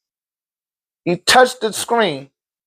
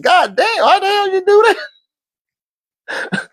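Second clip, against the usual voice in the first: astonished shout; 13 semitones higher than usual. Retold or imitated. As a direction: yell in disbelief at the kid. Father amazed by son.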